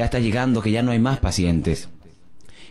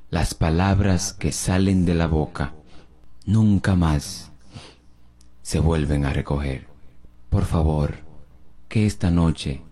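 solemn preaching; 6 semitones lower than usual. Acted. Pastor solemnly preaches to listeners about words that can't be recalled. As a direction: drive the lesson home gravely.

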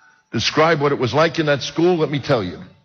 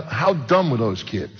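slow audience prompt; slower than usual. Shown as a demonstration. Preacher coaxes audience to ask, slowly. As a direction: draw it out slowly. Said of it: "can I tell you how d".

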